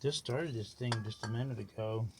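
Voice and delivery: talking around a sucker; words blurred by candy in mouth; sucking a lollipop. Real, not acted. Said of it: "Hard to talk with the sucker in your mouth".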